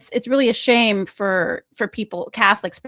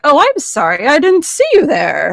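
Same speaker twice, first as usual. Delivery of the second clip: mock innocence; 5 dB louder than usual. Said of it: "he was like".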